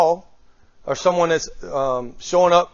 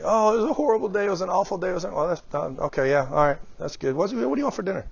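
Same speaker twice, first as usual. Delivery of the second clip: distracted reply; 2 semitones higher, 4 dB quieter, faster than usual. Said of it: "does your partner know whether...enthusiastic".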